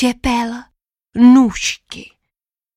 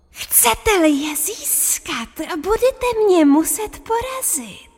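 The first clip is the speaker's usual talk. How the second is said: much higher, slow croaky sorcerer; croaking voice; 9 semitones higher, slower than usual. Acted. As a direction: menace them from the lair. Wizard challenges them.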